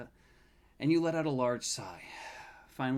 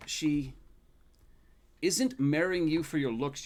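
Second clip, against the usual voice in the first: teasing grandfather; 5 semitones higher, 7 dB louder than usual. Acted.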